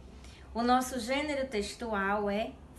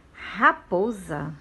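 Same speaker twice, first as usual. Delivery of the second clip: "Raposa" slow and loud, each syllable drawn out; modelo para repetição; 3 semitones lower, 6 dB louder, much slower than usual. Shown as a demonstration. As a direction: say "Raposa" slowly and firmly for pupils to copy. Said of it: "Repitam com a tia". ("Raposa" devagar e alto, para a turma repetir)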